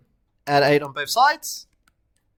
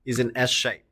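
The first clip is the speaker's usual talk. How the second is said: slow dictation; 4 semitones lower, 4 dB quieter than usual. Shown as a demonstration. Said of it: "write a note".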